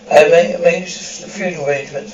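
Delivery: voice breaking. Acted. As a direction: choke up on the word made. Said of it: "voice breaking".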